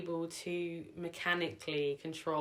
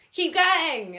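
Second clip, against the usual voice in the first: much higher, louder urging shout; retold cry out; 12 semitones higher, 13 dB louder than usual. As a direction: push them on through the pain. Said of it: "tearing up a bit".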